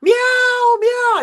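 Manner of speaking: high, piercing imitated meows; loud cat meow. Kiki tells everyone about the snack, loud meowing. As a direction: announce it like an excited cat. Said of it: "She goes".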